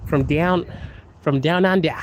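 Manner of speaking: halting attempt at an Aussie twang; retry the Australian vowels; twangy Australian accent. Shown as a demonstration. Streamer retrying for viewers, twangy Australian accent. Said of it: "the accent is so twangy".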